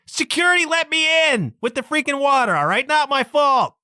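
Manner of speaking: retold indignant protest to the guard; exasperated protest. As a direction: throw up your hands at her, exasperated. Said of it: "I'm like".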